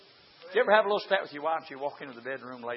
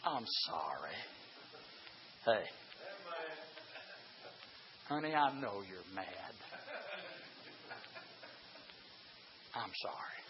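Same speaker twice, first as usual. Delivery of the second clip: pleading husband; 4 semitones lower, 13 dB quieter than usual. Retold or imitated. Husband pleads with upset wife.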